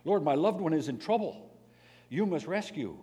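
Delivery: loud, high pleading demands; mock demanding prayer. Preacher acting a believer ordering God around, loud and high. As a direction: push harder with each plea to God.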